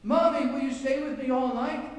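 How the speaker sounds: a scared small son begging mommy to stay; trembling little boy. A narrator's reading. Small son begs mother at bedtime, trembling voice. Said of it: "he asked in a trembling voice".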